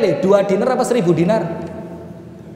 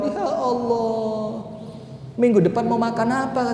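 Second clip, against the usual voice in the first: weeping widow; 3 semitones higher, 6 dB quieter than usual. Acted. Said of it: "Nangis ini perempuan".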